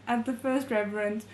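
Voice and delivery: reading through a laugh; giggling while narrating. Real, not acted. The reader cracks up at Zhi Jingyong, laughing. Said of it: "I don't know why I'm laughing".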